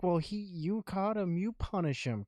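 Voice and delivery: retold protesting mother. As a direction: imitate a mother passing off the blame. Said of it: "And she's like".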